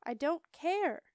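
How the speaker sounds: high, loud, slow flat refusal; curt refusal. A narrator's reading. Marcia refusing to take the dog back, high and loud. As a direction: shut him down coldly.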